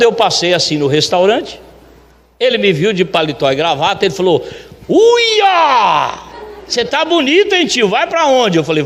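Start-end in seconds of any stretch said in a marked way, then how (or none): 4.9-8.6 high, long exclamation, then keen questioning; admiring amazement. Retold or imitated. Luiz sees the owner in a suit, admiring and amazed. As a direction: imitate an impressed friend, pitched well up.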